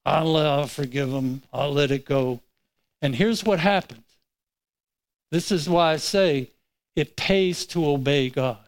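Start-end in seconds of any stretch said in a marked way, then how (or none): 0.0-2.4 grudging concession through gritted teeth; reluctant, grumbling forgiveness; with an attitude. Retold or imitated. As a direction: give in, but keep the attitude. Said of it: "with an attitude".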